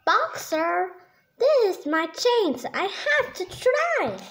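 determined moose pleading with his bear friend; eager insisting. Acted. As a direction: push past the doubt, climbing in pitch.

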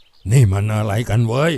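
low, slow irritated exclamation; exasperated groan. A narrator's reading. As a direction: groan aloud, itching to act. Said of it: "คลางออกมาดังๆ อย่างคันไม้คันมือเต็มที". (ครางอย่างหงุดหงิด)

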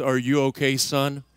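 lightly voiced grandpa, low and gentle; tender grandpa. Grandpa bending to his winded grandson, low and caring.

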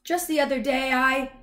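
high-pitched, chattering dog voice; Lucky the dog. A narrator's reading. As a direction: prattle on as a friendly dog.

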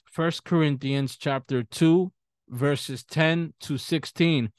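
"First Corinthians chapter two" drawn out, each word spaced and slow; slow, spelled-out reference. Shown as a demonstration. Pastor slowly repeats the verse reference for the congregation, slow and deliberate. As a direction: give the reference slowly so they can find it. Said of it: "repeated slowly for the congregation".

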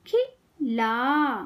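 खिला very slowly, pause after खि; syllable by syllable. Shown as a demonstration. Teacher teaching kids to read, syllables apart. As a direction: break खिला into खि - ला. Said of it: "शब्द पढ़ना सिखाऊंगी".

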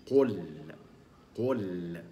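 قل with emphatic qaf and light lam; heavy qaf demo. Shown as a demonstration. Teacher modelling the word قل. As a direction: round lips on ق then smile into ل in قل. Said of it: "يبقى".

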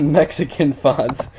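a laugh breaking into the words. Real, not acted. Joking to viewers about a Mexican font, laughing. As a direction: chuckle mid-sentence at your own joke.

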